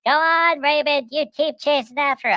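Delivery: high, cheering wife voice; grandma cheering her husband on; giggly wife. Retold or imitated. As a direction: egg him on, way up high. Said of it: "his wife is giggling".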